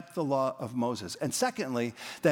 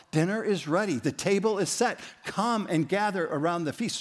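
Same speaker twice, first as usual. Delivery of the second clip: lightly acted dinner call, a little raised; servant calling dinner; 4 semitones higher than usual. Servant ringing the camp bell, calling guests to gather. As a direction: call them in to the table.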